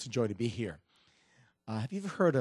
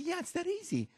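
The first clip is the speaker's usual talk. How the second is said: pitched way up, easygoing; high breezy confidence. Acted. Lady assuring her friend the crossing is easy, high and light. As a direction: make it sound effortless, high.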